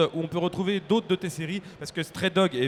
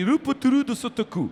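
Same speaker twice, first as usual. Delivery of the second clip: sotoku pronounced with a Japanese accent; 7 semitones higher, 5 dB louder than usual. Joking how rupture de stock is said in Japanese, Japanese-style pronunciation. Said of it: "en japonais, ça se dit".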